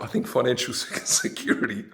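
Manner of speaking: chuckling through the words; laughing. Real, not acted. Podcaster laughing at women's money demands, chuckling. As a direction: laugh it out, amused. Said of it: "The reason I'm laughing".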